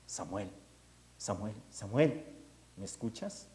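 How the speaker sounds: slow hushed calling of the name; soft calling voice. Acted. The voice calls Samuel again in the night, hushed. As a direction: draw the name out, calling softly. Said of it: "vuelve a escuchar esa voz".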